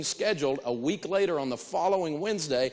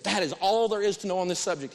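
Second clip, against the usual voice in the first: exasperated staffer, pitched up; raised, emphatic frustration, acted; frustrated; 4 semitones higher than usual. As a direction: protest as if at the end of your patience. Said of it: "all frustrated and say".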